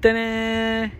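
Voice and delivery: high, loud showman's flourish; bright reveal for the camera; playful ta-da. Real, not acted. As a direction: present the fish like a magic trick. Showing off the caught fish.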